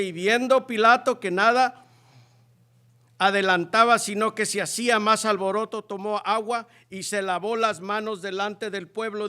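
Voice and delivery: loud start easing into steadier reading; proclaiming scripture. A narrator's reading. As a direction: read the verse out forcefully, then settle. Sigue leyendo la Escritura. (lectura bíblica proclamada, cada vez más contenida)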